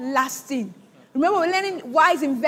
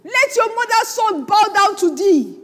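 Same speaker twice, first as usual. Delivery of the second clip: louder, punched delivery of "Let your mother's son bow down to thee"; emphatic; 3 semitones higher, 5 dB louder than usual. Acted. Preacher stressing Isaac's blessing over Jacob, emphatic. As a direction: drive home each word of "bow down to thee", loudly. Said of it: "he wanted to emphasize it".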